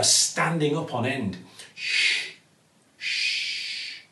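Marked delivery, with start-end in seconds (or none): 1.7-4.0 breathy hushing to calm a scared animal; comforting shush. Acted. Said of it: "said Zoe comfortingly".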